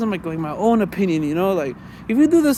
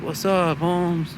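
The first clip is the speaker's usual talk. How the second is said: lightly put-on LA Mexican-American accent; mock a Chicano greeting a homie; imitated Chicano homeboy; 4 dB quieter, much slower than usual. Showing how some LA Mexicans talk, mild Chicano accent. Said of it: "they have that kinda like".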